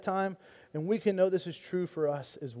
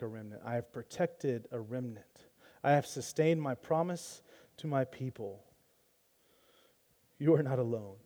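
God's gentle reply; 4 semitones lower, 7 dB quieter than usual. Retold or imitated. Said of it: "He says".

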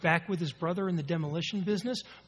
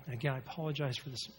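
stuffy, blocked-nose voice; nasal allergy voice; 3 semitones lower, 3 dB quieter than usual. Real, not acted. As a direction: speak through a stuffed-up nose. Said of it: "this nasally allergy voice".

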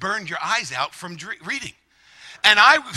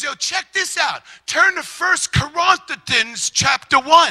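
raised voice calling to the fellas; retold yell; 5 semitones higher, slower than usual. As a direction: call out the announcement, drawn out and higher. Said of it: "he, he yells".

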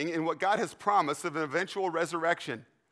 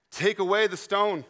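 loud, raised command; 5 semitones higher, 6 dB louder than usual. Acted. Jesus ordering the stone moved at Lazarus' grave, commanding. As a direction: call it out firmly as an order.

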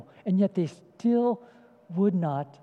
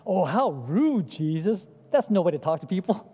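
mock offended. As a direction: play a scandalised bystander, lightly. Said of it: "If it sounds like Jesus is a little bit irritated".

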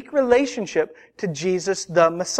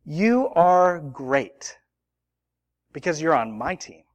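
reassuring captain; 4 semitones lower than usual. Pretend. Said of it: "I put my arm around you and I say".

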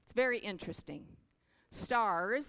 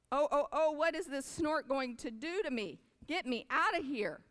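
panicky; 8 semitones higher than usual. Acted. Baby bird lifted by the snort, frightened cries. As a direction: squeal it like a scared chick.

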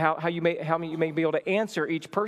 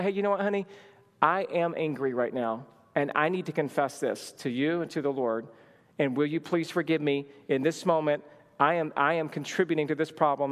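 calm confession; 2 semitones lower than usual. Acted. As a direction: own up soberly to your spouse. Models confessing anger to spouse.

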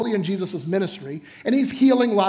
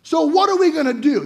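eager friends; 4 semitones higher, 3 dB louder than usual. Pretend. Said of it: "these guys are like".

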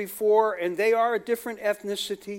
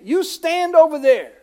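mock dismissive order; 6 semitones higher, 8 dB louder than usual. Insulting the poor visitor.

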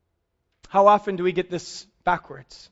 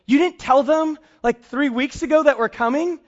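retold panic; 6 semitones higher than usual. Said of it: "my wife would always panic".

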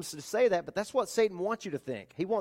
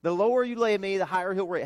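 defiant taunt; 4 semitones higher, 5 dB louder than usual. Shown as a demonstration. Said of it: "How can Christians taunt death and say".

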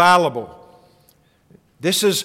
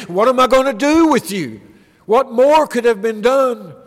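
exasperated God; 3 semitones higher than usual. Acted. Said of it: "as if God is saying to them".

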